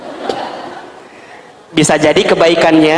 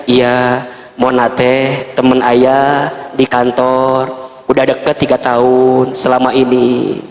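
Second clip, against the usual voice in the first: low slow confession; 6 semitones lower, slower than usual. Acted. Acted husband confessing.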